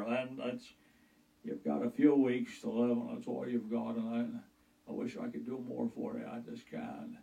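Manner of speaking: Jimmy Stewart impression. Doctor breaking terminal news, stammering then fading to a whisper. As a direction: stutter gently and trail off to nothing. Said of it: "like, uh, Jimmy Stewart".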